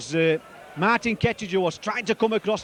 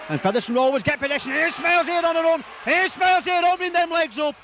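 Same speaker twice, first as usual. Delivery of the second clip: quicker and higher as the run starts; rising excitement; 8 semitones higher than usual. Real, not acted. Commentator catching a Rovers break, building excitement. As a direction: lift your voice as the break opens up.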